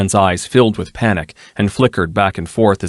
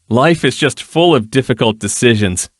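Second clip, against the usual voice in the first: lightly voiced languid dandy; amused nobleman; 5 semitones higher, 3 dB louder than usual. Nobleman Danilo teases from behind her, lightly amused. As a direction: drop the remark with lazy amusement.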